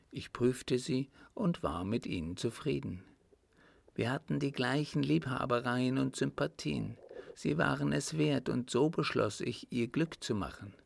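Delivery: countess explaining. Acted. Countess tells him she chose to help him, lightly voiced. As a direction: explain assuredly as the countess, pitched a little up.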